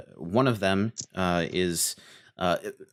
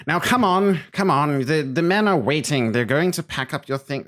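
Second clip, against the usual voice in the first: snooty nephew voice; 3 semitones higher than usual. Acted. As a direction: sneer at the old uncle like a spoiled lord. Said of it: "walks over to his uncle and says".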